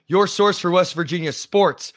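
real hoarse voice from yelling. Real, not acted. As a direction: talk through a hoarse, worn throat. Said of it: "day two of the hoarse voice".

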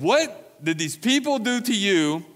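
demanding. A narrator's reading. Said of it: "and demanded".

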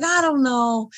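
high-pitched retold hesitation; wavering. Host retelling her wavering over publishing, high-pitched and unsure.

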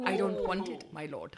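put-on subdued English accent with a laugh; laughing, lightly English-accented, fading; Tyrion impression. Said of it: "best Peter Dinklage as Tyrion".

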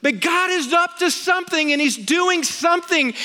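retold pastor's awe. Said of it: "And he said".

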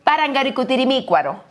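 "Parangaricutirimícuaro" spoken carefully syllable by syllable; pronunciation demo. Shown as a demonstration. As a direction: say "Parangaricutirimícuaro" cleanly for the audience. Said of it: "así es como se pronuncia".

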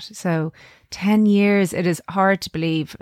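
slow, wobbling with real emotion; wobbly voice. Real, not acted. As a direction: voice catching on each word. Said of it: "I get wobbly voice even when I say that".

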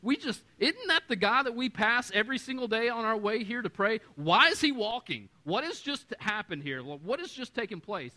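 stunned temple crowd; amazed crowd. Retold or imitated. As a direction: gasp at the miracle. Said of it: "everybody's looking around going".

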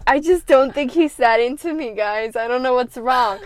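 lightly hammed-up fake innocence; fake innocent girl. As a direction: play it wide-eyed and falsely helpless to the other girls. Feigning being disliked, acted quote.

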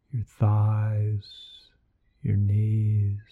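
guided meditation. Acted. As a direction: lead them gently into relaxation.

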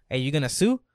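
loud homie question, a light impression; Pedro's wrong voice. Friend asking him over a gas mishap, wrong homie voice. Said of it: "he don't talk like that".

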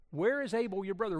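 voice of God. Acted. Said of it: "Then the Lord said to Cain".

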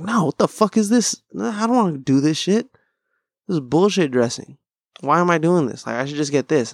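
retold petulant protest; visibly upset. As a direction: replay being upset over nothing. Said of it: "visibly upset".

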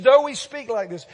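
loud, high declaration; booming quoted verse; emphatic quote. Retold or imitated. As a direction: proclaim the writer's words. Quoting the writer emphatically.

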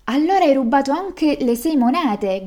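lightly acted royal outburst; king's accusing cry. A narrator's reading. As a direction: cry out as the king uncovering a theft. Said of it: "gridò il re".

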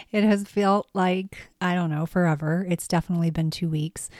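hoarse, sick raspy voice. Real, not acted. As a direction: rasp through a cold. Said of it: "excuse my raspy voice".

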